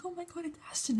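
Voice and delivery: high, soft whispery fan squeal; mock starstruck whisper. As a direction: imitate fans squealing under their breath. Imitating starstruck fans spotting Ashton.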